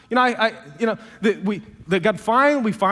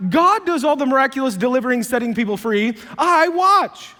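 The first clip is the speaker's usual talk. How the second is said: objecting Moses; 4 semitones higher than usual. Retold or imitated. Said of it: "he's like".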